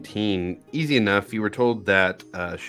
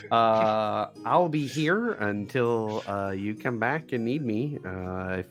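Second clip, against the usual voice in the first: gnome voice; 3 semitones higher than usual. Acted. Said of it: "gotta get my gnome voice back on".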